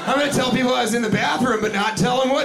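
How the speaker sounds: high, gloating mock voice; mocking imitation. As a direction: parrot the culprit with silly glee. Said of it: "You just went in the bathroom like".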